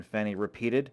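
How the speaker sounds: ordinary delivery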